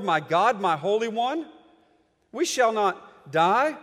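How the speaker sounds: fervent Bible reading; scripture reading. Acted. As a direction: proclaim the prophet's lament to the congregation. Preacher reads Habakkuk passage aloud.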